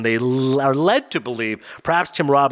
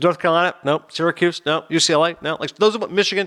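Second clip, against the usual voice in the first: imitating wife; 4 semitones higher than usual. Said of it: "She goes".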